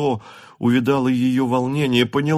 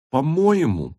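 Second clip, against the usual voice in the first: sudden higher angry outburst; Natasha nearly shouting; 6 semitones higher, slower than usual. A narrator's reading. Natasha turning on Petya, angry cry. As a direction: snap back at her brother. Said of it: "вдруг закричала почти Наташа".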